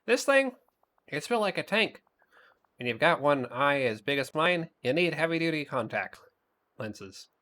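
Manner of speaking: high, bragging monster voice; proud cartoon monster voice. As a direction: boast like a cocky little monster. Reads Mike's lines in voice.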